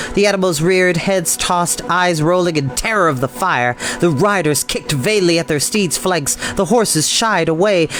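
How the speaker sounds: plain reading voice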